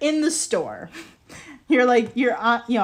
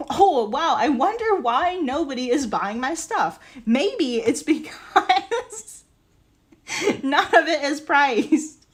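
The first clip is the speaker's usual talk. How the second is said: sarcastic; 4 semitones higher than usual. Acted. Seller mock-wondering why nobody buys their stuff, sarcastic. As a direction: feign puzzlement, then stretch out the obvious answer.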